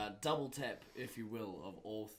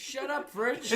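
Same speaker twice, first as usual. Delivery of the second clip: loud, high scolding yell; mock-angry shout; 12 semitones higher, 10 dB louder than usual. Host scolds the humming fridge on air, mock-angry shout. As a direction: yell it in comic outrage, pitch up.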